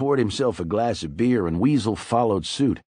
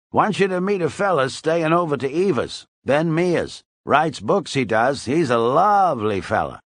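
put-on old drunk Weasel; 5 semitones higher than usual. A narrator's reading. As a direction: play the chatty tipsy old-timer, pitched up. Narrator voices Weasel.

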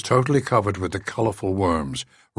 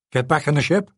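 quavering; 7 semitones higher, 3 dB louder, faster than usual. A narrator's reading. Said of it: "in a quavering voice".

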